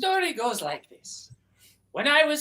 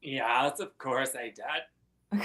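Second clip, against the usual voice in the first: low slow voice; 11 semitones lower, 8 dB quieter, much slower than usual. Acted. Low put-on voice.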